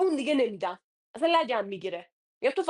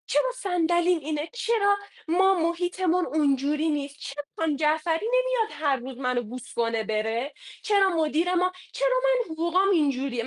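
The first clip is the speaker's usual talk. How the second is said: mock whining employee; 4 semitones higher than usual. Manager mimics a grumbling salesman, mock whining. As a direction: whine about the chair and pay like a sulky employee.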